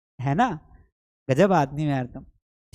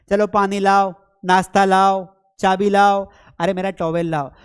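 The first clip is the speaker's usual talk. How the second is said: calling out orders; 5 dB louder than usual. Retold or imitated. Voicing household orders.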